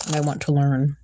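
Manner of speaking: talking while crunching snacks; chewing between words, mouth full; crunching chips. Real, not acted. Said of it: "Sorry about all the crunching".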